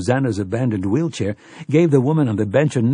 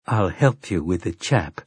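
grim; 3 semitones lower than usual. Acted. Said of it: "Susanna replied grimly".

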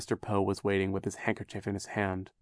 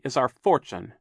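louder, higher bitter finish; 4 semitones higher, 7 dB louder than usual. A narrator's reading. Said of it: "Klaus said bitterly".

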